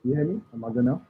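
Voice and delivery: muffled mic sound. Real, not acted. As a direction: talk as if the mic is covered. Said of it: "but you sound a little muffled".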